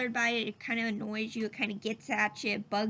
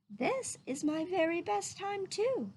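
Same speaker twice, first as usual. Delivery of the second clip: sweetly; 7 semitones higher than usual. A narrator's reading. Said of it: "she told him sweetly".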